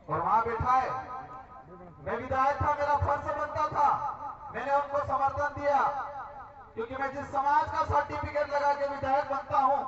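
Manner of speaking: forceful public oratory in punched phrases; political rally speech. Real, not acted. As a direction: address the crowd with declamatory force, pausing after phrases. (चुनावी सभा का जोशीला भाषण)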